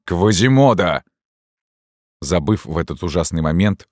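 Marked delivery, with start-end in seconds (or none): 0.0-1.0 calling out. A narrator's reading. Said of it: "и закричал".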